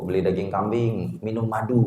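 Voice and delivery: soft mock teasing of newlyweds; low-key retold ribbing. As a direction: imitate a sly tease, quietly. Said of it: "biasanya suka diledekin".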